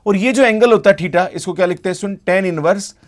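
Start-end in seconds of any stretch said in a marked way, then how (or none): 2.3-2.9 slow, clear dictation of the formula. Shown as a demonstration. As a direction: spell out "tan inverse Y by X" word by word, very slowly. Teacher dictates formula slowly.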